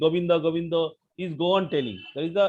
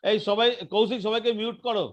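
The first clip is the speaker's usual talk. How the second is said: raised voice, higher pitch; real interruption, raised and high-pitched; calling out over noise; 3 semitones higher, 3 dB louder, much faster than usual. Real, not acted. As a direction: call out sharply to the whole group. Interrupting to get noisy participants muted.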